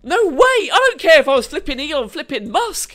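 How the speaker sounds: mock parental refusal, rising in outrage; mock strict parent. Playing Chet's parent refusing an allowance, mock indignant.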